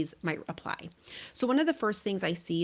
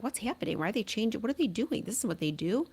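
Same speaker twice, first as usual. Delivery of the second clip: imitating upset kid; 3 semitones higher than usual. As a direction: play the kid, confused and getting madder. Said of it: "they're gonna be like".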